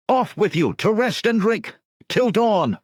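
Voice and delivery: high, loud dismissal; shout over crowd. Acted. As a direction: send them off with a roar. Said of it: "Conan shouted over their cries".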